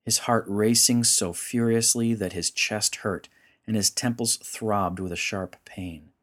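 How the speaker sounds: measured, dramatic storyteller's read; story narration. A narrator's reading. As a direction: narrate a solemn myth with deliberate phrasing. Narrates a story over music.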